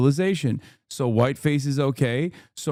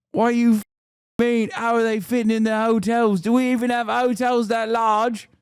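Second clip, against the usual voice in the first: mock panicked racist lady; 8 semitones higher than usual. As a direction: squeal it like a lady hearing the real number. Voices the racist lady's panic.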